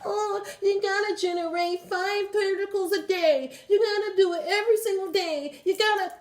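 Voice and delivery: high, mocking influencer voice. Mocking the influencers who tell you what to do. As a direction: sneer like a know-it-all influencer. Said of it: "These influencers who telling you".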